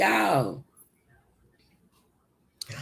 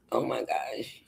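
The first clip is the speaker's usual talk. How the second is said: muttered under breath; 6 semitones lower, 9 dB quieter than usual. Real, not acted.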